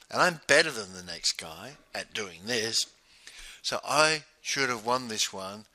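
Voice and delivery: firm, unwilling to accept the loss; self-assured, questioning what went wrong; determined. Shown as a demonstration. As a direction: stop short and take the loss personally. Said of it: "Notice the difference in tone".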